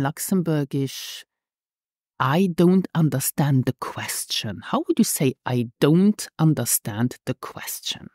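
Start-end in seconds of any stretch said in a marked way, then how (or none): 2.2-4.6 whisper. Shown as a demonstration. Prompt whispered. 5.4-8.1 whisper. Shown as a demonstration. Prompt whispered.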